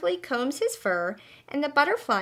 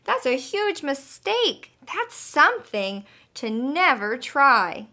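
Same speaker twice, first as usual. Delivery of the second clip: scolding; 4 semitones higher, 4 dB louder than usual. Acted. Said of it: "screams the butterfly".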